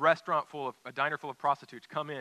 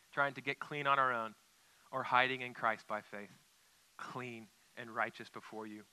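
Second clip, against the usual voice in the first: closing prayer. Acted. Pastor leads closing prayer.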